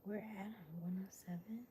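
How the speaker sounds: whispering. Real, not acted. Whispers throughout stream.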